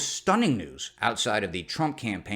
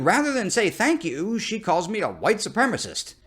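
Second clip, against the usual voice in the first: Trump impression; 8 semitones higher than usual. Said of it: "He continued".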